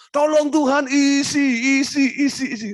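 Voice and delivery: high, loud, insistent isi isi isi; frantic begging. Retold or imitated. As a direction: beg God over and over to fill the wallet. Mock desperate begging to God.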